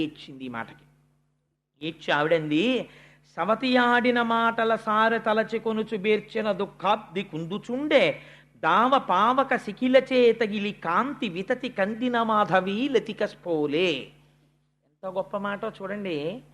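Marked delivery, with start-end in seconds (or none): 3.4-13.9 slow chanted recital of a poem; verse recitation. Acted. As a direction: intone the verse with measured pace.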